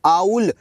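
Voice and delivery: आउल said alone with its vowel start clear; demonstrating pronunciation. Shown as a demonstration. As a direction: sound out आउल slowly. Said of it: "starting की sound हो जाएगी ए की".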